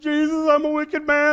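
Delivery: high and loud "wicked man"; loud retelling. Retold or imitated. Pastor recounting to his brother-in-law, high and loud. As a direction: tell it with excitement.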